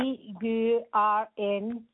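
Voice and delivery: slow, letter by letter; spelling it out. Real, not acted. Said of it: "would you mind just spelling that for me".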